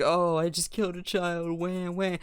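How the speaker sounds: sarcastic fake sobbing "wah, wah"; mock crying. Mocking Black Widow's guilt, fake whimpering. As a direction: mimic her crying, hammed-up. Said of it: "crying about it".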